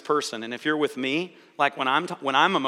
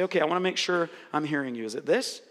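modeled clarifying line; 2 semitones lower, 4 dB quieter than usual. Shown as a demonstration. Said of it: "take a moment and say".

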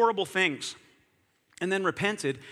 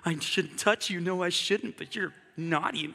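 playful temptation; slower than usual. Retold or imitated. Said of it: "you're like".

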